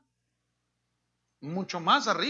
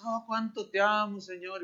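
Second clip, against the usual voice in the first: mock worship; 4 dB quieter than usual. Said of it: "levantan las manos".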